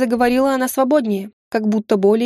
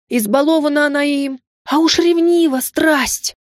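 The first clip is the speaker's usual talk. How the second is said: worked-up gossip; 5 semitones higher than usual. Acted. Maid whispering scandal to Kingaida, rising excitement. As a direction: pile it on, scandalised. Servant dramatically denouncing mistress.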